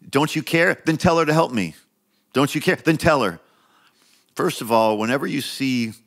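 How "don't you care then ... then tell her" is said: higher, complaining Martha; mock Martha complaint. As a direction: needle Jesus like an impatient Martha. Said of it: "She's like".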